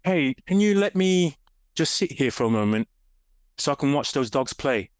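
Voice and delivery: lightly voiced eager dog; imagined talking dog. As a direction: voice the dog asking politely, lightly. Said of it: "your dog goes".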